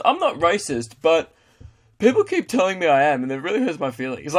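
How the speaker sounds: mock-injured excuse maker; mock wounded racist. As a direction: play a hint of a hurt bigot. Mocks self-pitying racist excuse.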